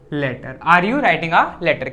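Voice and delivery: very slow, word by word for the class; slow dictation. Shown as a demonstration. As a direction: spell it out slowly so students can write. Teacher dictating English sentence slowly. (बहुत धीरे, शब्द-दर-शब्द बोलना)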